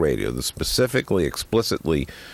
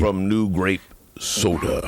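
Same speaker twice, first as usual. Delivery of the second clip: mock ad read; slower than usual. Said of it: "it's sort of like this".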